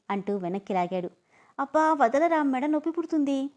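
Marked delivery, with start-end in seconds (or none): 1.6-3.5 pained protest. Acted. Pulled back by her scarf.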